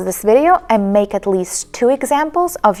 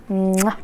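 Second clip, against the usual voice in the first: lip-smack kiss "mwah"; blown kiss; 3 dB quieter than usual. Real, not acted. Teacher greets her viewers, blown kiss. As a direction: blow a quick kiss to the listeners.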